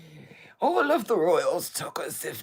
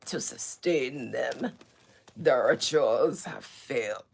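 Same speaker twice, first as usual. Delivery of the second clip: mock ancient royal voice. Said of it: "talk like this in such an ancient voice".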